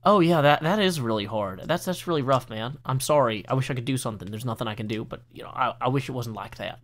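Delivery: sympathetic friend. Retold or imitated. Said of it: "your friends go".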